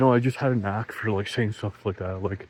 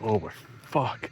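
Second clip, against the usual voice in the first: soft, slow worried murmur; nervous mutter; 6 dB quieter, slower than usual. Retold or imitated. Storyteller recalling the tense bar moment, soft and slow. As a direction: say it quietly, dreading what comes. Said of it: "I was nervous".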